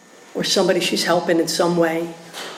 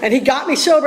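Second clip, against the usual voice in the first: laughing; 5 semitones higher than usual. Real, not acted. Laughing about having no solution.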